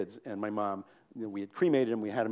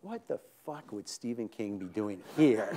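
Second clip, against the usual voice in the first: scoffing; 3 semitones lower, slower than usual. Retold or imitated. Wife dismissing the idea.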